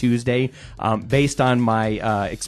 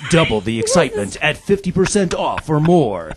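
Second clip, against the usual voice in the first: movie trailer voice; 3 semitones higher than usual. Acted. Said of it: "the movie trailer guy".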